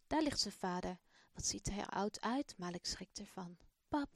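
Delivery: put-on expressive storybook reading for children; children's story voice; story narration. A narrator's reading. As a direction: tell the story warmly to young listeners. Reads the Malik story aloud.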